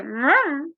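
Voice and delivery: high-pitched cat-like "mmm"; imitated cat reply. Cat answering its owner's yell, imitated high grumble. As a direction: answer back with a high little cat noise. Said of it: "And I'd hear".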